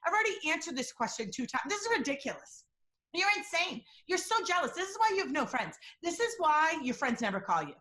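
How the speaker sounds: mock the lying spouse snapping back; defensive anger. Lying spouse accusing the questioner, mock angry outburst. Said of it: "Sometimes the tone goes up".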